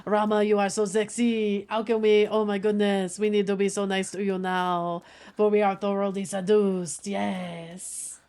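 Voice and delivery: lightly voiced mock French accent, seductive play; burly Frenchman. Streamer imitates chat swooning, light mock French accent. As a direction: ham up a smooth French charmer, barely shifted. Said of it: "spoken like a burly Frenchman".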